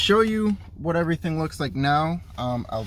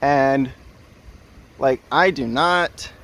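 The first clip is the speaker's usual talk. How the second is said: raised voice against the wind; shouting over wind; 3 dB louder than usual. Real, not acted. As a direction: call it out loud over gusts. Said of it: "I'll try and yell over the wind".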